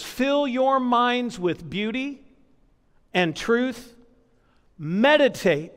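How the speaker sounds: scripture reading. Acted. Reading scripture in a measured cadence.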